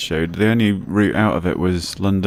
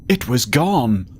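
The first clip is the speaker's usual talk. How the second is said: higher, slow, drawn-out dismay; dramatic lament; 5 semitones higher, much slower than usual. Acted. Young man explaining his case vanished, dramatic dismay. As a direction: draw out the loss dramatically.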